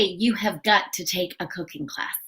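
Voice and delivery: soft, kind, smiling advice; smiling gently at your friend; with a smile. Shown as a demonstration. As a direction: say it softly so it doesn't sting. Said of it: "say it with a smile because you don't want to be mean".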